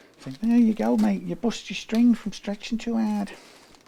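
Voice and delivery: bad put-on Scouse accent, very high. After a string breaks, the speaker puts on a bad Scouse accent. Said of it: "I've culturally appropriated a bad Scouse accent".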